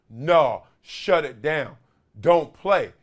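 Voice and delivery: firm, punched mock command; mock body yelling. Aching body telling its owner not to play, mock yelling. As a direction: voice the body's yell in short, loud bursts. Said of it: "my body is yelling at me".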